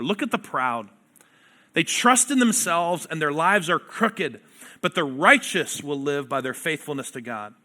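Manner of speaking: forceful pulpit reading building up; scripture reading. Acted. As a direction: proclaim the verses with rising fire. Preacher reads scripture aloud.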